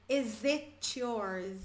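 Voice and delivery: "Is it yours?" with is, it and yours run together, slow; linked slowly. Shown as a demonstration. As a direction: glide "Is it" into "yours" with no breaks. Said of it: "O is emenda no it".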